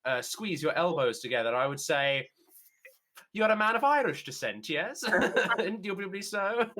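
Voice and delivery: lightly put-on sleuth making a deduction; playful Sherlock-style pronouncement; Sherlocky detective. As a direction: deduce it grandly, laughing at the end. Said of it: "It's a Sherlocky figure".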